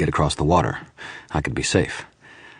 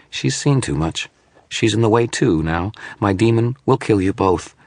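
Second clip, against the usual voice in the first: lightly voiced, cold menacing shadow; 6 semitones higher than usual. Hologram condemning Dresden and the woman, lightly voiced menace. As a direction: pronounce their death coolly. Image threatening both.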